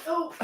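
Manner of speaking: strained grunt while leaning over; small grunt of effort. Real, not acted. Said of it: "Sorry for my grunting".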